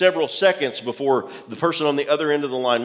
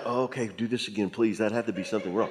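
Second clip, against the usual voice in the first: stunned plea; 6 semitones lower, 7 dB quieter, faster than usual. Retold or imitated. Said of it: "I was like".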